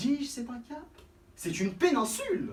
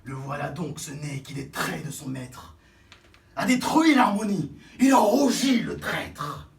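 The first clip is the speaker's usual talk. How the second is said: sobbing tragic parody, crying out; mock sob; 5 semitones lower, 5 dB louder than usual. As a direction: wail it like a ham tragedian. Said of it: "parodiant Pyrame en un sanglot".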